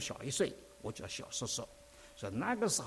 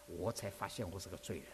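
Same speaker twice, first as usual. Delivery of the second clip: hushed realisation; 7 semitones lower, 7 dB quieter than usual. Acted. Refrain repeated.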